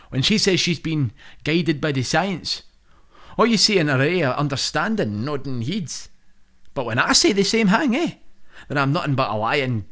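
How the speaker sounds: lightly voiced indignant Prime Minister rant; Boris Johnson voice. The reader performing Boris's monologue, mock indignant. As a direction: read it as a spluttering Prime Minister.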